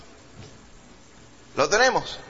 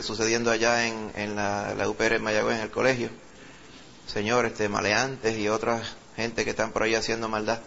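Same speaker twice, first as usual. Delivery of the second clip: real pastoral prayer, raised at first then settling; intercessory prayer; 3 semitones lower than usual. Real, not acted. Pastor prays over the congregation's petitions, earnest prayer. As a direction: pray in steady phrases, calling on the Lord.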